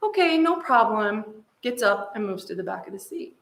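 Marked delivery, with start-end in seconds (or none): 0.0-1.4 easygoing, drawn-out storybook reply; pitched up, slow and obliging; agreeable brother. Retold or imitated. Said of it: "And the brother says".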